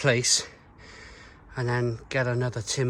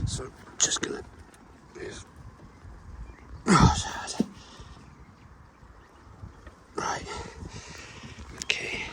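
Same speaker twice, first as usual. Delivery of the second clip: straining, breathless whisper; out of breath; 3 semitones higher, 7 dB quieter than usual. Real, not acted. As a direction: gasp it out under effort. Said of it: "Sorry for all the grunting and the out of breath".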